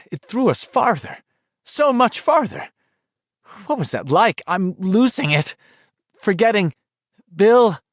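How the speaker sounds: put-on a scared boy fading; Ben's voice. A narrator's reading. Ben calling out to Bill in the dark, shaky.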